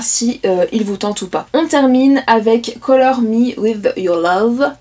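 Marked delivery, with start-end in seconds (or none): 2.8-4.7 slow, clumsy English accent on the title; a deliberately terrible English accent; bad English accent. Shown as a demonstration. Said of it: "avec mon accent bien anglais, bien dégueulasse".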